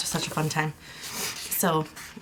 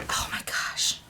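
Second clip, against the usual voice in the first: slow, whispered amazement; hushed awe; 4 dB quieter, slower than usual. Real, not acted. Vlogger overcome by the samples' feel, hushed awe. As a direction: breathe it out slowly in wonder.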